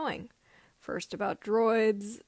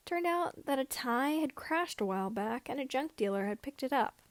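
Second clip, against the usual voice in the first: ordinary delivery, nothing marked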